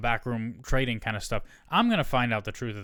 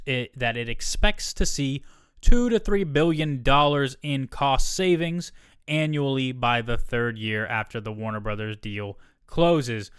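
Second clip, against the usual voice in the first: corporate read; 4 dB louder, slower than usual. Retold or imitated. Reading company statement aloud.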